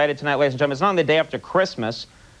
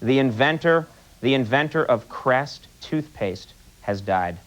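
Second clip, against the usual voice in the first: low, subdued sad-news delivery; mock solemn; 8 semitones lower than usual. Host breaking sad news to the audience, mock solemn. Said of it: "with some sad news".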